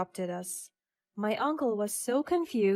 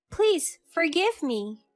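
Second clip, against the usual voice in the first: slow tearful plea; 7 semitones higher, slower than usual. Acted.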